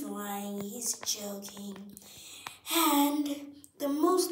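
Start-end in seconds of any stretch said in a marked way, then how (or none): 0.0-1.8 whispering. Acted. Aside whisper, unvoiced.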